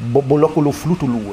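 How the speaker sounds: Bobolokulu Flutulu, vowels between all consonants; Japanese pronunciation. Shown as a demonstration. Explaining a loanword, he says Bobolokulu Flutulu Japanese style. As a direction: Bobolokulu Flutulu, every syllable sounded. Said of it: "immer ein Vokal dazwischen".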